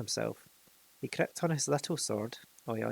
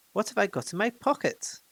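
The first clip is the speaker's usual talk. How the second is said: asked louder; 8 semitones higher, 4 dB louder than usual. A narrator's reading. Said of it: "he asked louder".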